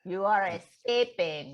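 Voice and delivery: slow, deliberate mock accusation; ominous imitation. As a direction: pronounce it like a creepy captor. Mimicking roommate's ominous claim.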